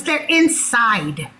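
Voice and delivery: slow, drawn-out curt reply; imitated rude seller. Seller answering a customer about chess pieces, mock-rude. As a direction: mimic her being rude, stretching the words. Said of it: "she had been rude kinda to everybody".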